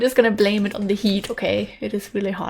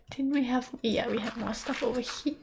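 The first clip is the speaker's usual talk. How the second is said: whisper; 6 dB quieter than usual. Real, not acted. Muttering to herself while mining.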